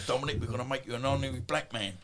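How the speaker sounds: quick, jokey put-on voice of a gym friend; a lightly voiced joke greeting; imitating a gym friend. Old gym friend welcoming the boxer, lightly mimicked. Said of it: "he's going".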